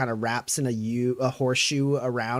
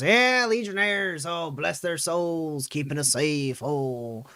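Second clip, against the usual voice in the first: put-on wistful old woman; slower than usual. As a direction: bless them like a sentimental grandma. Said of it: "And she goes".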